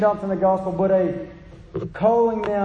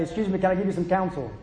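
soft polite tap; 3 semitones lower, 5 dB quieter, faster than usual. Retold or imitated. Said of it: "tap on it real softly and say".

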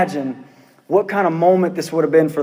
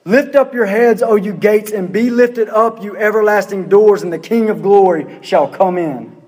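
authoritative command. Acted. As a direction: proclaim it as a commanding order. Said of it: "gives this authoritative command".

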